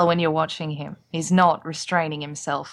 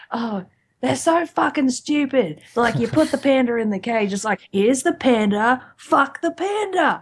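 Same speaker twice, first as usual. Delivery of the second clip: higher, exasperated retold comedy rant; mock rant; 4 semitones higher, 3 dB louder than usual. Retelling a comedian's panda bit, mock rant.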